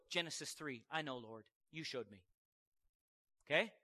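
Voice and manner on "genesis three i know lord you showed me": soft, much quieter, humbly agreeing; quiet acceptance. Pretend. Preacher voicing a believer who answers God quietly, hushed. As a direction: murmur it like a settled prayer. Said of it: "Just go".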